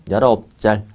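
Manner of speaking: put-on "짤" said with a childish tch sound in place of s; short-tongued "짤" for 살; lisping baby talk. Shown as a demonstration. Teacher showing students a memory trick, short-tongued "짤". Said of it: "혀 짧은 소리 좀 내야 돼요".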